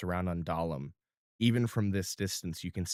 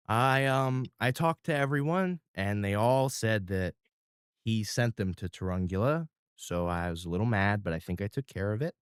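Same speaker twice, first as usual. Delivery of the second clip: put-on little boy. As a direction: speak like a shy small boy. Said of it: "lowers down and goes".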